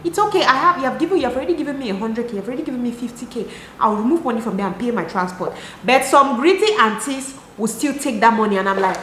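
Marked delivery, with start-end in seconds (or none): 0.0-5.5 put-on sweet girlfriend. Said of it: "You can be like".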